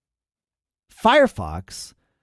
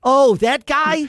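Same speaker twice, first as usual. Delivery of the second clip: mock surprise; 14 semitones higher, 6 dB louder, slower than usual. Mock surprise at Einstein joke.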